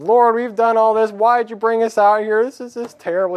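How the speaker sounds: high, loud, anguished complaint to God; a man in despair crying to the Lord; distraught lament. Acted. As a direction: pour your heart out, falling apart. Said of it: "He's just an emotional mess".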